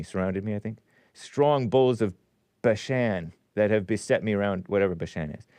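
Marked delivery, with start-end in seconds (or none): 1.1-4.7 measured King James recitation; solemn scripture reading. Acted. Host reading Psalm twenty-two to listeners, measured recitation. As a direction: read it out deliberately.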